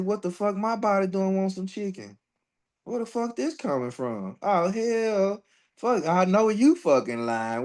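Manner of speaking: scolding her body for wanting chicken, high and amused; incredulous outburst. Retold or imitated. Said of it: "I said".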